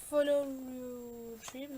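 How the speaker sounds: slow English words in a heavy French accent; bad English accent. Real, not acted. Vlogger reading a sticker slowly, in a heavy French accent. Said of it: "très mauvais accent anglais".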